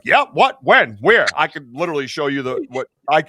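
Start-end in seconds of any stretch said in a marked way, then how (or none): 0.0-1.2 eager. Retold or imitated. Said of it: "And she was like".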